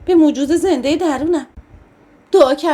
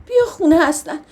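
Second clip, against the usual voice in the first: tearful plea; 2 semitones higher than usual. Acted. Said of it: "ناگهانی زدم زیر گریه".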